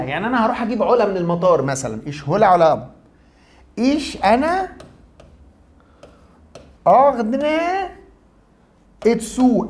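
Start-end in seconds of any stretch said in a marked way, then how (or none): 3.8-9.7 إيش أنا أغنى اتسو said higher and slowly as German ich ordne an; German sentence. Shown as a demonstration. Teacher models the German sentence for students, careful pronunciation. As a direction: sound out each German word apart. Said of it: "أنا برتب".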